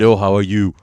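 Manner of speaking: a badly faked French accent; attempted French accent. Shown as a demonstration. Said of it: "in your best French, French accent".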